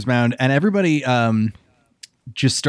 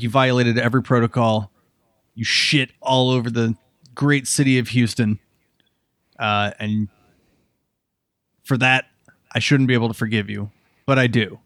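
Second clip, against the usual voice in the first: put-on Brooklyn accent. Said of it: "I'm still in the Brooklyn accent".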